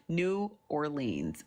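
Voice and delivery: "New Orleans" as two distinct words; pronounced as spelled. Shown as a demonstration. Telling viewers how she will say it, "New Orleans" as spelled. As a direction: give "New Orleans" both words, no local slurring. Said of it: "We just gonna say".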